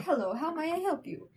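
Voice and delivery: politely mangled Australian skeleton voice; botched Australian accent. Acted. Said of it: "they have an Australian accent, not whatever the heck I just did".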